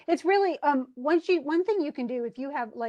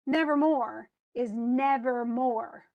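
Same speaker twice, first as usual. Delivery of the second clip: nevermore slowed, NEV-er-MORE; measured demo of the beats in nevermore; stressed, unstressed, stressed; slower than usual. Shown as a demonstration. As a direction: stress first and last syllables of nevermore. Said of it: "so it's stressed, unstressed, stressed".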